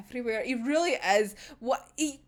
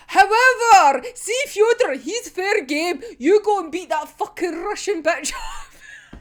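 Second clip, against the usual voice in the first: loud, high, hammed-up command; loud proclamation breaking into laughter; emphatic order; 6 semitones higher, 6 dB louder, slower than usual. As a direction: belt it out like a gleeful battle order. Acted order to attack, gleeful.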